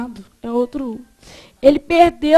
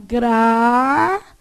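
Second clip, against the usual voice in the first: "Gratuito" drawn out in separate syllables; 3 semitones lower, much slower than usual. Shown as a demonstration. Teacher asks class how to separate it, syllable by syllable. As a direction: slowly split "Gratuito" as gra, tui, to. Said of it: "como é que separa?".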